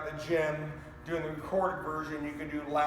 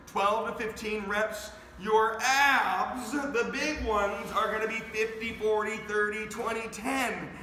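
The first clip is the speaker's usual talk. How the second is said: pitched up and punchy to fire up the class; energetic coach voice; 3 semitones higher than usual. Real, not acted. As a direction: pump energy into each count like a coach. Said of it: "I'm talking like this to give you some energy".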